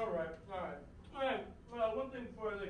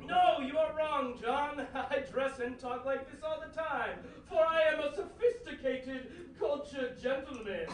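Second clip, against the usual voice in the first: posh gentleman voice. Acted. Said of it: "You don't talk like that either".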